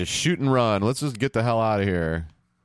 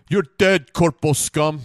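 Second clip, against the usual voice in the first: mock battle cry; 8 semitones higher, 6 dB louder, slower than usual. Shooting enemies in game.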